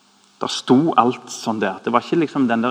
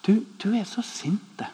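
gentle plea; 5 semitones higher, 5 dB quieter than usual. Retold or imitated. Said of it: "og så sier han".

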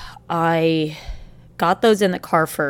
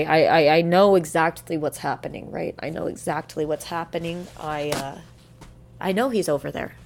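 emotional; 4 dB quieter than usual. Real, not acted. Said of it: "I'm getting emotional".

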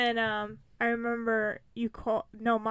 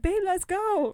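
higher, louder hurrying call; louder impatient husband; urgent; 9 semitones higher, 7 dB louder, slower than usual. Retold or imitated. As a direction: rush her out of the car.

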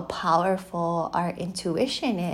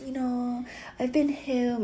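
higher-pitched mock New Zealand accent; 6 semitones higher than usual. Wife quotes husband asking her out, imitated New Zealand accent. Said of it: "New Zealand accent at the time".

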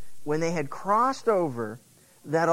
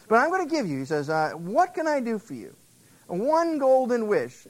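Elijah's offer; 5 semitones higher than usual. Acted. Preacher voices Elijah's offer.

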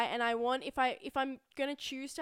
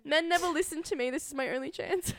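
passionate; 5 semitones higher than usual. Real, not acted. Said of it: "I'm so passionate about this".

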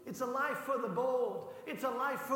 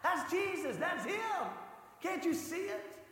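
mock yell; 4 semitones higher than usual. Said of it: "he starts screaming".

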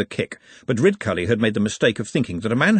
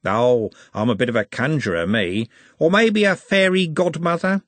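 cheeky Pepe; 4 semitones higher, 3 dB louder than usual. Acted. Voices Pepe bantering with Trev.

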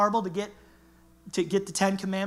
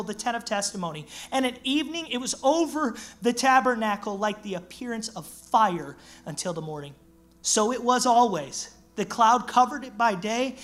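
measured scripture reading; lightly formal Bible reading. Acted. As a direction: read the passage with weight. Reads scripture.

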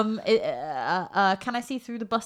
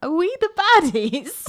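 worried question; 8 semitones higher, 4 dB louder than usual. Acted. Celadon's crisis of conscience.

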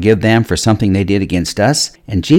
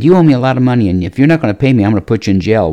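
loud, raised threat, calming by the end; angry threat; 2 semitones higher, 3 dB louder, much faster than usual. Acted. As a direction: lean on him hard, then settle into the threat. Debtor threatens man who owes him.

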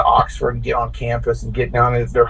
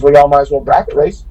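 a touch of southern drawl; lightly imitated southern gate lady. Gate lady urging them to bracket race, light southern drawl. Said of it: "in her southern drawl".

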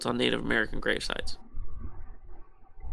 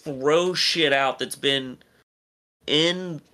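incredulous outrage; 3 semitones higher than usual. Retold or imitated. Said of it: "I'm like".

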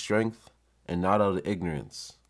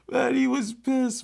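loud; 5 dB louder, slower than usual. Real, not acted.

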